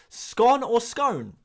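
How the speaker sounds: "Scone" slowly said two ways; two pronunciations contrasted. Shown as a demonstration. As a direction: contrast both vowels of "scone", slow and loud. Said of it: "when you start doing the accents".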